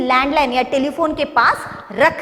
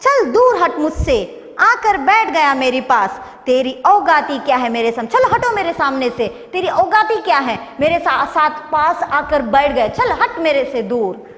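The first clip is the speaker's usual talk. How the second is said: telling someone off firmly, only slightly raised; mildly forceful rebuke. Acted. Telephone orders the mobile away from it, mildly forceful. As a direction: push them away with restrained force. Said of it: "फिर जोर से क्या बोलता है".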